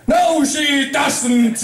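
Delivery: a princess thunders at the pranksters; booming royal voice. Acted. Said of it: "a voice boomed out".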